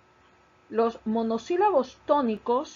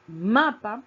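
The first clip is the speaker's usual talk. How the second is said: "mapa" with a loud, leaning first syllable MA; "mapa", force of voice on MA; stress on MA; 6 dB louder than usual. Shown as a demonstration. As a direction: punch the MA in "mapa", let "pa" drop. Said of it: "tiene la mayor fuerza de voz en la sílaba ma".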